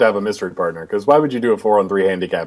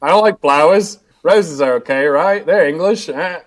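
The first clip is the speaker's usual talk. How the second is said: put-on Justin Gabriel accent; 3 semitones higher than usual. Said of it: "that wonderful Justin Gabriel promo".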